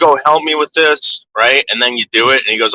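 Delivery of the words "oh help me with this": mock dad. Father asking for help, mocked.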